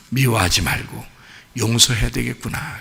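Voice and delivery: soft, low murmur to oneself; quietly resolve to let it go; understated inner voice of someone calming down; reflective self-talk. Acted. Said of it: "이런 마음을 가지라".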